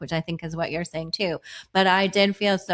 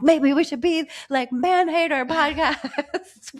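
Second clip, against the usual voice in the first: half-laughing joke, pitched high; 9 semitones higher than usual. Retold or imitated. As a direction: laugh through the silly idea. Joking proposal, laughing.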